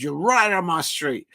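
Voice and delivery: half-hearted imitation of a Newcastle accent; Newcastle accent attempt. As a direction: have a rough go at Newcastle. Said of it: "I can't really do it in a Newcastle accent".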